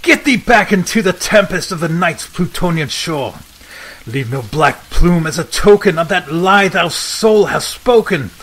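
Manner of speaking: loud shrieking command. Acted. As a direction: drive the bird out with your voice. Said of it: "I shrieked upstarting".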